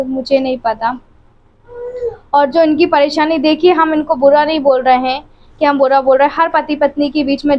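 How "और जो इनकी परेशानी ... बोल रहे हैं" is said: fighting back a sob as she speaks; real tearful plea to viewers; holding back tears. Real, not acted. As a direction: voice catching on the verge of crying. Tearful wife venting about husband.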